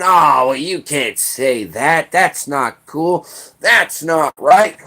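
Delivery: mocking, slow, whiny complaining; whiny Democrat. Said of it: "Democrats come out and start bitching and moaning".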